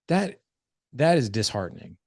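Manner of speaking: retold dad's angry reproach; pissed off. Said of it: "And I got pissed".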